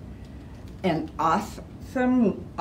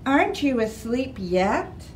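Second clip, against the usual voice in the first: Mom; 5 semitones higher than usual. Acted. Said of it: "said Mom".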